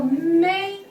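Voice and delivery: "may" held high and level; high first tone. Shown as a demonstration. Teacher illustrates first tone with English, high level "may". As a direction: sustain "may" on one flat note. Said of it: "that's the first tone".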